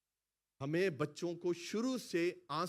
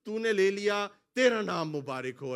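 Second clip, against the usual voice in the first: loud, high proclaimed quote of Job; loud preached exclamation; Job's cry; 6 semitones higher, 11 dB louder than usual. Retold or imitated. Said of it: "Ayub نے یہی کہا تھا".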